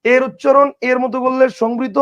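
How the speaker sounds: slow, careful teacher's repeat; measured slow classroom recap. Shown as a demonstration. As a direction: spell out the rule slowly for students. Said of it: "কথা কি বুঝছেন?".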